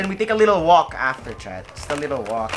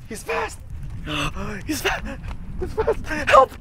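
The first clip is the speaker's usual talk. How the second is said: excited; 9 semitones higher, slower than usual. Real, not acted. Chasing the fast dog.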